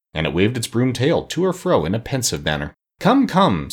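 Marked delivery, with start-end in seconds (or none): 3.0-3.7 kindly coaxing, lifted high. A narrator's reading. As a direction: cheer them up gently but brightly. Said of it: "said the Scarecrow kindly".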